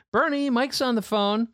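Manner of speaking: lightly voiced mom calling her husband.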